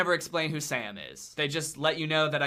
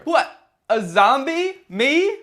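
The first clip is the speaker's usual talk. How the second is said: high, loud feigned disbelief; mock surprise; 9 semitones higher, 9 dB louder, slower than usual. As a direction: play innocent, shocked.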